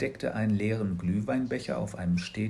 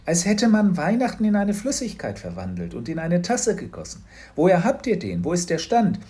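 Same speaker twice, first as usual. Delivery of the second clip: Mama; 7 semitones higher, 6 dB louder than usual. A narrator's reading. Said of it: "sagte sie".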